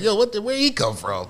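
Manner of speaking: high-pitched, jokey double take; mock startled. Acting out startled reaction to bad kids.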